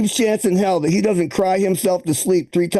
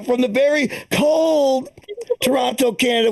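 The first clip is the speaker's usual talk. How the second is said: slower, lingering joke announcement; slow, drawn-out announcer. Acted. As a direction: stretch out very cold slowly. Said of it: "inside joke with Jerry".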